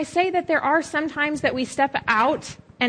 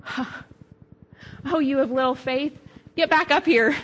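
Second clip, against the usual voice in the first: encouraging Jesus; 3 semitones higher than usual. Retold or imitated. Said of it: "not in anger or disappointment".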